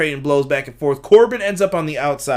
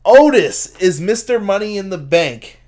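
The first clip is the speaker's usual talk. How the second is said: slow, loud, raised-pitch reveal; dramatic winner announcement; 4 semitones higher, 6 dB louder than usual. Real, not acted. Host telling chat the briefcase fell to Otis, dramatic announcement. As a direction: proclaim the winner slowly and loudly.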